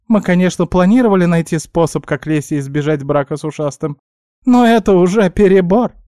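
high squeaky voice, loud final protest; protesting guinea pig. A narrator's reading. Guinea pig objecting to the body swap, exasperated squeak.

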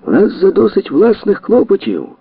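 high and loud complaint; shouting. Acted. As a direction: shout your grievance across the hall. Ford keeps shouting at police.

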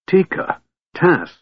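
suddenly remembering his friends; gasped names. A narrator's reading. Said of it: "Caramon gasped".

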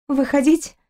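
questioning rise through numb lips; numb lips mutter. A narrator's reading. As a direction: mumble it as if lips won't move. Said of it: "непослушными губами пробормотала". (бормочет онемевшими губами, с вопросом)

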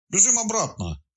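high shouted call to run back. A narrator's reading. Detective calling his partner to run back, high shout. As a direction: yell it up high, urgently. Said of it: "крикнул сыщик".

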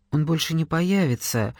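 understated grief; dull voice. Acted. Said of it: "тусклым голосом".

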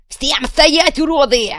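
high, loud bellow with an insult; commanding yell. Acted. Kuvalda on the jeep roof yelling at the crowd. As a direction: roar them into stillness.

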